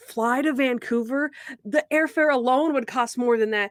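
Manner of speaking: lightly acted disbelief, slightly lifted; mock incredulity. Man answering Natalie's suggestion to fly, mildly incredulous. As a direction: imitate someone balking at an absurd suggestion.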